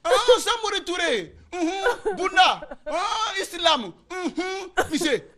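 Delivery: high, drawn-out trance chanting with grunts. Acted. Adult pupil falling into a trance, high and chanting. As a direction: channel a spirit in a trance. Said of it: "ces genoux vont répondre".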